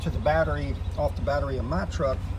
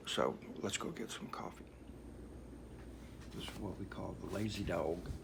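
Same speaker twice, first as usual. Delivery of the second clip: hushed; 12 semitones lower, 17 dB quieter than usual. Real, not acted. 4 AM, dog still asleep.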